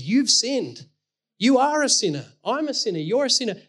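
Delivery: lightly voiced God naming everyone's sin; God's stern verdict. God telling each of us we have sinned, lightly stern.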